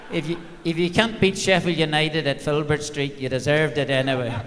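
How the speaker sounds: put-on lightly done Irish accent with a laugh; a hint of Irish accent, half laughing. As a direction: settle back into a mild Irish lilt, still amused. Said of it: "said in this Irish accent".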